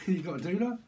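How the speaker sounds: mock Aussie question; lightly put-on Australian lilt; Aussie accent. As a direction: ask it in a playful Aussie accent. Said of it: "someone could be from, uh, Aussie".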